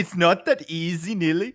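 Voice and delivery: put-on slow, lightly Norwegian-accented teasing. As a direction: mimic a Norwegian accent, mildly. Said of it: "Super Norwegian accent".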